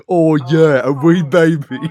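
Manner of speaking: high, loud hammed-up British accent; bad British accent. Quoting a movie character's bad British accent, high mock British. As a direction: mimic a terrible British accent. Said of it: "We're doing British accents".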